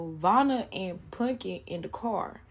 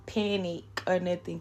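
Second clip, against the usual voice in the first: ordinary delivery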